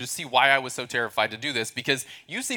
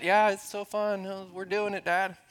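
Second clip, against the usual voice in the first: higher, slow, sarcastic teen reply voiced by dad; sarcastic daughter; 4 semitones higher, 5 dB quieter than usual. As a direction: drag it out like a daughter mocking the fun.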